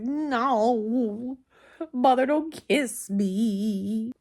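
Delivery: slow, stretched-out mock protest; voicing a reluctant pet. Pet refusing owner's kiss, in a drawn-out put-on whine. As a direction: drag out each word as the unwilling pet. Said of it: "She's like".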